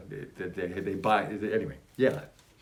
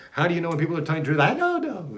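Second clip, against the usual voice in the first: higher, fast quip; 9 semitones higher, 7 dB louder, faster than usual. Real, not acted. Reading question, then a squeaky answer.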